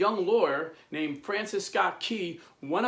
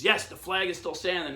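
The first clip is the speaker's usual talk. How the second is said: higher, triumphant retold call; exultant call; 4 semitones higher than usual. Francis answering the anxious prisoners, exultant. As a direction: announce the good news, lifting the pitch. Key calls news to prisoners.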